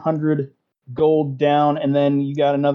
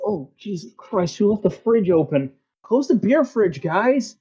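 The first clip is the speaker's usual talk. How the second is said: complaining guys; 6 semitones higher than usual. Acted. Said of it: "they go".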